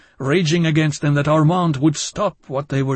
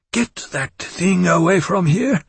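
higher, louder furious shout; 7 semitones higher, 5 dB louder than usual. Acted. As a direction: shout it in a fury. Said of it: "he said furiously".

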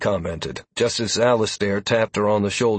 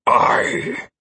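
whispered telepathic aye; mental voice; 3 semitones higher, 4 dB louder than usual. Acted. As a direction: breathe it like a voice in the head. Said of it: "Amaranth's belated mental voice".

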